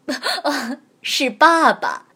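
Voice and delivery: embarrassed laugh. Acted. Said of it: "公鹅有些难为情地回答".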